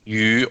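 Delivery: YU going up; second tone. Shown as a demonstration. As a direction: copy the rising slide on YU. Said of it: "you're going up".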